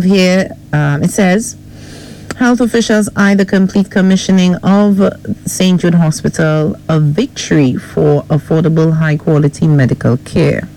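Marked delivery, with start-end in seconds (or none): 2.4-10.7 measured newsreader delivery; news headline read. Real, not acted. Co-host reads morning headlines to host and listeners, newsreader style. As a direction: read out the headlines as a radio presenter.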